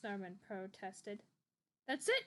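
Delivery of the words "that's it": sudden high, loud burst of discovery; excited exclamation. A narrator's reading. Michael bursting out to family with sudden discovery, excited. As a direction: blurt it out like a eureka moment. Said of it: "exclaimed Michael".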